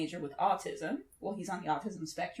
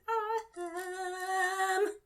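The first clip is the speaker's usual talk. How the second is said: gushing; 10 semitones higher, much slower than usual. Real, not acted. Gushing over the actress.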